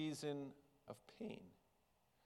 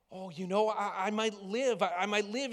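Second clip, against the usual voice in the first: high bird voice, a bit louder; higher, louder bird voice brightening; hopeful little bird; 6 semitones higher, 5 dB louder than usual. Acted. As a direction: let the little bird dare to hope. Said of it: "and he could say".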